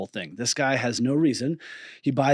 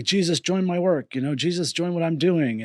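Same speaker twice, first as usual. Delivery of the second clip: pleading prayer; 5 semitones higher, 3 dB louder than usual. Retold or imitated. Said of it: "And I'm like".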